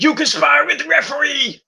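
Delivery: high mock yell of accusation; mock screaming. Sammy accusing Kevin, mild mock yell. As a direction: accuse him like a sore loser. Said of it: "screaming at Kevin".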